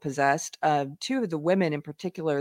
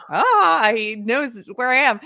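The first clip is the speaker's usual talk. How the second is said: mock fright; 5 semitones higher, 6 dB louder, slower than usual. Mock fear.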